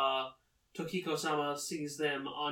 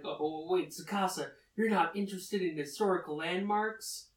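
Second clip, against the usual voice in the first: mildly alarmed retold question; rising, higher-pitched disbelief; freaking out; 4 semitones higher than usual. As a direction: ask in mock dismay. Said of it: "Nasa starts to freak out".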